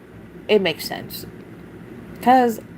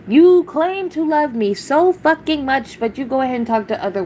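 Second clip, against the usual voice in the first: mock confronting ex; 7 semitones higher than usual. Venting at her ex who betrayed her.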